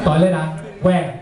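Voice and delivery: blunt Singlish reply. Retold or imitated. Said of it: "I know".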